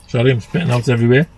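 spluttering with a full mouth; chewing while apologizing. Real, not acted. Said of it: "Talking with my mouth full".

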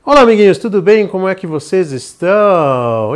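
put-on high, loud sing-song kids' greeting; chirpy children's host welcome; bright squeaky sing-song welcome.

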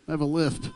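"I have a lisp" with a lisped S. Retold or imitated. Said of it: "letter S in the word lisp".

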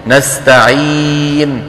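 نستعين chanted slowly with pure long ee; الياء الخالصة. Shown as a demonstration. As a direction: hold a closed ee in نستعين. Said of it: "الياء العربية إي". (نستعين بياء خالصة ممدودة)

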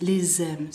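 "les aime" linked as lé-zaime; z liaison. Shown as a demonstration. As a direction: put a z between "les" and "aime". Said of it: "Ahí, z". ("les aime" unido con sonido z)

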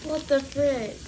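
high shocked exclamation. Real, not acted. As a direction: blurt in disbelief. Sour candy pain.

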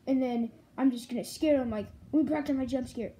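a kid voicing a toy monster bragging about scaring; Nightmare Freddy voice.

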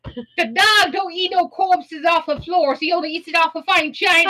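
snooty about the dog; sassy attitude. Acted. Explaining the dog's fine taste, sassy. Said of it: "we have to get that attitude with that accent".

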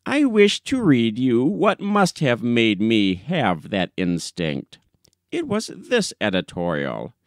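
put-on stern old gentleman reading out the offending lines; a touch of disdain as he quotes the editorial; lightly voiced severe old man; austere old farmer, accusing.

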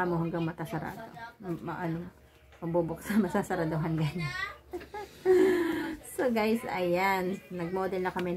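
muffled behind mask; speaking into mask; through a face mask. Real, not acted. Seen 4: White KF94 mask covers mouth and nose throughout labelled speech.

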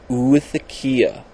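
oothekia drawn out slowly as "oo-thuh-KEE-uh"; careful pronunciation. Shown as a demonstration. Vlogger naming a roach egg case, slow careful oothekia. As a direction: slowly sound out oothekia, falling at the end. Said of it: "not sure if I'm pronouncing that right".

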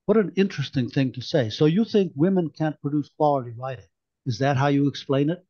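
brisk, pointed sarcasm; sniffy challenge. Acted. Merica needling Perkins at the meeting, quick and sarcastic. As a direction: needle him with fast mock politeness. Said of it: "Merica sniffed".

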